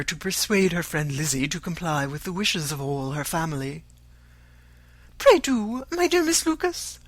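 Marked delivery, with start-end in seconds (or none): 5.2-7.0 high-pitched, plaintive pleading; melancholy. A narrator's reading. Mother entreating Miss Lucas for compassion, melancholy. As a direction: implore her in a high, sorrowful voice. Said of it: "she added in a melancholy tone".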